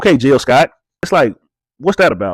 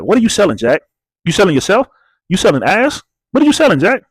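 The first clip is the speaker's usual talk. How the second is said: high, pushy mocking questions at Jack; mock interrogation; 5 semitones higher than usual. Reality show host grilling Jack about his job, mocking. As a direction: needle him like a nosy in-law.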